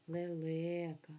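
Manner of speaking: лелека, second syllable LE stressed, slowed; confirming stress for pupils; stress on second vowel. Shown as a demonstration. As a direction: show the children where the stress falls. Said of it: "На другий голосний".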